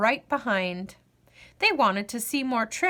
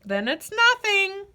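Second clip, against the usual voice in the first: grinning; 9 semitones higher, 3 dB louder than usual. Acted.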